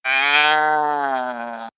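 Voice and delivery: groaning undead noise; zombie moan. Acted. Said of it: "that's actually a good little zombie noise".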